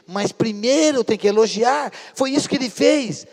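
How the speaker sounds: exhortation rising steadily in pitch; building preaching. Real, not acted. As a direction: build from measured appeal to forceful, high preaching. Pregação que cresce em força. (pregação crescente, exortando)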